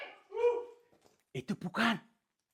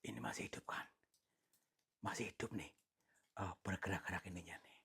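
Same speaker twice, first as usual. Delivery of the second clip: softer unvoiced whisper; awed whisper; 6 semitones lower, 10 dB quieter than usual. Real, not acted. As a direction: whisper so as not to disturb it. Whispering over a moving thing. (berbisik takjub)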